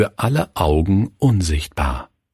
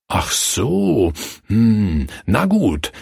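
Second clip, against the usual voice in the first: thoughtful; slower than usual. Acted. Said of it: "sagte der Reiter nachdenklich".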